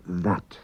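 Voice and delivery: "that" with a clearly voiced English TH. Shown as a demonstration. Teacher shows how double T and D sound, voiced TH. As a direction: buzz the TH at the start of "that". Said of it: "pronounced like English th, as in that".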